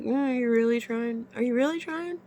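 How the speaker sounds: high-pitched retold doubting; sceptical retort. Woman challenges partner's effort, high and sceptical. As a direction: needle him with high, doubting questions.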